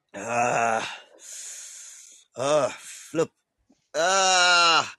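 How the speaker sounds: pained groans while stretching. Real, not acted. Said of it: "I'm stretching me, so I'm, I'm feeling a little bit of pain".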